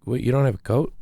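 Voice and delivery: tut-tut like a fussing mother; mock motherly disbelief; motherly scolding. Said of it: "in a very motherly way".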